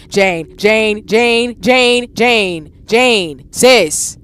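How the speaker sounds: urgent calling. Real, not acted.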